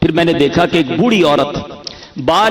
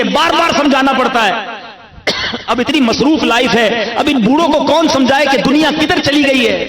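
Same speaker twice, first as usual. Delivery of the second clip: higher, aggrieved grumbling about parents; whiny complaint; 5 semitones higher than usual.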